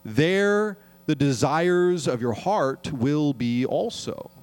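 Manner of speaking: slow, measured reading of the verse; unhurried solemn recitation; scripture reading. Acted. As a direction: read it deliberately, like from the pulpit. Reads Matthew six aloud.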